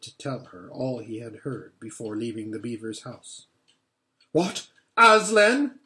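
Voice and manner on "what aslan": startled, high and loud; shocked outburst at the name; cried out. Acted. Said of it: "cried the queen".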